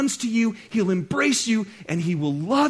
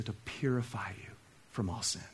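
unvoiced hushed whisper; a pastor whispering a promise to the church; 9 semitones lower, 12 dB quieter than usual. Real, not acted. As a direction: breathe the promise. Drops to whisper.

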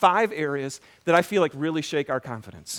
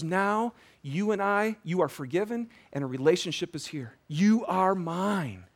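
tender reassurance; 3 dB quieter than usual. Acted. Preacher speaks as God to a new believer, tenderly reassuring. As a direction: ease off, then draw out the last words.

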